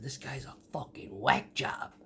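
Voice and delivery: hushed whisper; retold whisper. To Sprinkles on the phone about the finisher, whispering. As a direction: whisper it like he might overhear.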